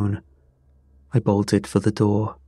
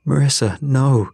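loud, raised warning; urgent shout; 5 semitones higher, 5 dB louder than usual. A narrator's reading. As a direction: shout to stop her. Stopping her near the fire.

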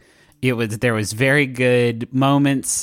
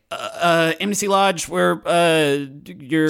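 lightly voiced, higher lodge phone greeting; Jake Cool; 4 semitones higher, slower than usual. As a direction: answer the phone a little higher, hesitant and stumbling. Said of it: "and you hear Jake Cool, I say".

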